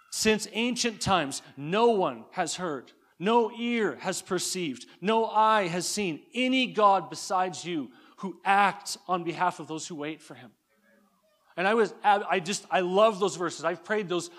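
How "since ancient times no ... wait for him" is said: slow, measured scripture in awe; slow prayerful reading. Acted. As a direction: let each phrase land slowly. Reads Isaiah verse slowly.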